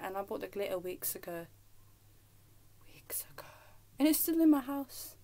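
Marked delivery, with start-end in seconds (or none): 2.9-3.5 very soft, breath-only whisper; hushed repeat. Real, not acted. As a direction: echo it under your breath. Hushed echo of own words.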